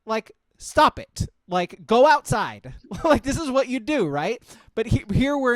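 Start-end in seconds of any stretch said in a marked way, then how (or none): 0.1-2.7 telling a bar guy off. Retold or imitated. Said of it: "You're like".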